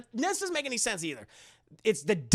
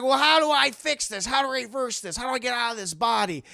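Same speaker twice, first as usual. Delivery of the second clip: raised, pressing questions; urgent demand; 3 semitones higher, 4 dB louder, faster than usual. Retold or imitated. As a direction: act out mounting desperation for a fix. Chucky demands a way out.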